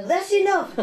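high mock nagging voice; imitating the resident. Teacher mimics the old resident shooing cooks away, high and fussy. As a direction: shoo people off in a high fussy voice. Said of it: "and she goes".

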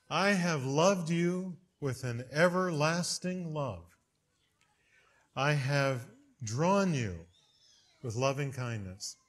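slow, tender recitation; solemn scripture reading. Shown as a demonstration. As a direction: savor each word of the verse. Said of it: "I want to hear those words over and over".

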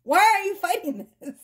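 lightly acted spirit, pleading in exasperation; exasperated spirit. Spirit answering someone who resists their person, exasperated. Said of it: "And Spirit goes".

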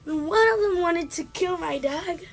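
mock outraged NPC. Gamer voicing a complaining game character, mock outrage. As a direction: read it like a wronged villager. Reading NPC dialogue dramatically.

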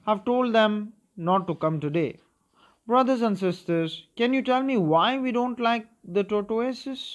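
Makara addressing the reptiles. Acted. Makara's speech voiced.

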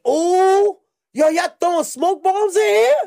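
high, loud mock astonishment; high loud mock shock; fake innocent surprise. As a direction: play innocent, all shocked. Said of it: "I'm like".

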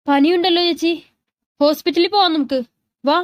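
tense, worried. A narrator's reading. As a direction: urge her with worried concern. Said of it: "മിഴി ടെൻഷനോടെ പറഞ്ഞു".

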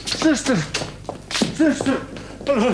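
calling out. Acted. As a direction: call out to get the nurse's attention.

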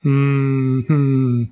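closed-mouth hum of amusement; muttered chuckle. A narrator's reading. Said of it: "borbottò Rakitin ridendo". (mugugno divertito a bocca chiusa)

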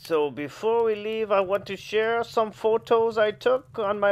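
a lightly put-on refined French-tinged host voice; a fussy storybook hostess signing off; snooty poodle voice. Reader closes the story.

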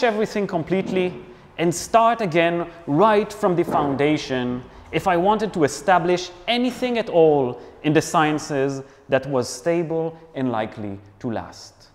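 emphatic, theatrical reading, a hint of French; dramatic French accent. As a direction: declaim it with a lightly faked French accent. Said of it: "let's start with a dramatic intro".

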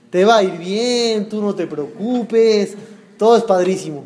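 slow, drawn-out mock reassurance; acted carefree consoling, slowly; breezy reassurance. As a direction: stretch out the easy comforting words. Mimics easy reassurance to others.

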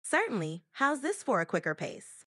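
brisk, quick delivery. Shown as a demonstration. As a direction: pick up the pace. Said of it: "can you speak faster?".

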